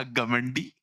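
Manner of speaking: scornful. Retold or imitated. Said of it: "मैंने कहा".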